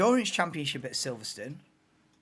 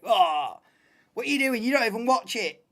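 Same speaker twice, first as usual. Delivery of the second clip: mocking commenter; 4 semitones higher than usual.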